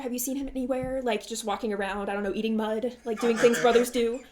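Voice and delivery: lightly voiced pompous innkeeper; fluster, then ask awkwardly; flustered bossy voice. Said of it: "he goes".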